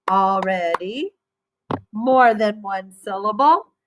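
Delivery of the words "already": already said slowly, rising at the end; already, spoken slowly; slow model word. Shown as a demonstration. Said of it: "did you get".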